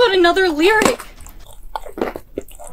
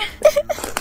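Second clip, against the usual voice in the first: nervous laugh; 9 semitones higher than usual. Acted. After cutting own hair.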